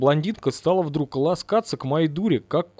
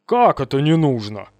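booming indignant outburst; loud indignant boom; 4 dB louder than usual. Acted. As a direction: thunder it back, outraged. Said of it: "возмутился я".

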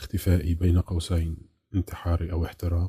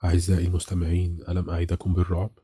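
quick, upbeat host pitch to the listeners; radio announcer; faster than usual. A narrator's reading. Radio host hyping horror to his listeners, brisk announcer voice. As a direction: sell the scare like an ad read. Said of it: "بطريقته الإعلانية".

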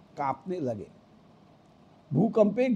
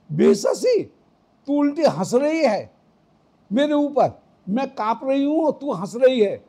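higher, pleading rebuke of a laughing friend; Radha scolding her friend; 3 semitones higher than usual. Acted. Radha scolding the friend who laughs at her, higher pleading rebuke. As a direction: voice Radha, half-afraid, half-hurt at being laughed at. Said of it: "Shri Radhika कह रही हैं".

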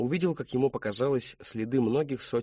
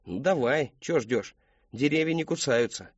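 lively, needling a hesitant friend; goading taunt; 4 semitones higher than usual. Acted. Boy to stalling friend by the woods, taunting. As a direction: egg him on, pitch jumping up.

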